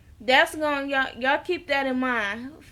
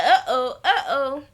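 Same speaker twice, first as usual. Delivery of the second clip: laughing uh-oh. Real, not acted. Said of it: "I was like".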